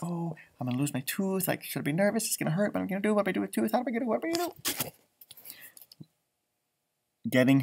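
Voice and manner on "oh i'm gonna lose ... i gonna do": soft, rising panicky fretting; worried girl. Pretend. Girl fearing her lost tooth, mounting mock panic.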